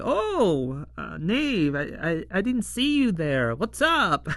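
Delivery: swooping, stammered fake-casual greeting; hammed-up innocent surprise; mock caught off guard. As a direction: play the flustered twins covering up, voice rising at the end. Twins acted, caught by Nave's arrival.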